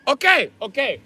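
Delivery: high nasal-free okay repeated; grudging landlord giving in; exaggerated Asian accent okay; mock landlord accent. Landlord voice in phone quarrel.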